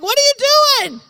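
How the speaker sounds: high, loud startled cry; startled shriek. Retold or imitated. The girl startled under his hot hand, shrieking. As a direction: shriek it like she's shocked.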